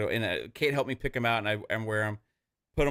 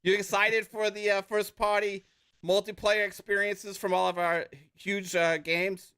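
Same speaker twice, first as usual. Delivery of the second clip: put-on hard-sell patter in an Australian-Jersey accent; mock salesman. Salesman selling multiplayer to fans in an Australian-Jersey accent. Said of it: "I'm trying to be a salesman".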